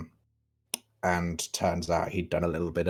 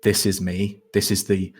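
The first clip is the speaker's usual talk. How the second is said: light Irish twang instead of posh; Irish accent. Acted. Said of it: "his voice distinctly changes from the posh voice ... I'm trying for a more Irish twang".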